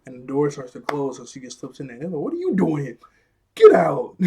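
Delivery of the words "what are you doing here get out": higher-pitched outburst ending in a loud "get out"; angry mock yell. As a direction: act out throwing someone out, building to a shout. Acted confrontation at elevator door.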